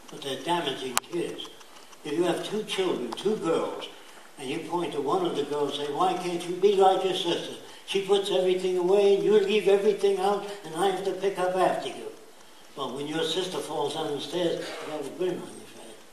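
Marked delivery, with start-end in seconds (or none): 5.9-12.1 nagging parent, louder and higher; scolding parent. Retold or imitated. Parent scolding the messy daughter, louder and higher.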